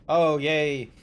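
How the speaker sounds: slow, dim-witted caveman talk; dumb brute voice. Retold or imitated. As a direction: play a musclebound meathead, slowly. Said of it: "Not, like, strong of".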